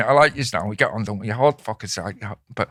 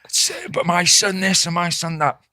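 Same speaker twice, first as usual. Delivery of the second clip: higher-pitched, drawn-out angry mum; mock a mother shouting abuse, pitch raised; imitating an irate mum's shouting; retold shouting; 4 semitones higher, slower than usual. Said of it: "she's shouting to me".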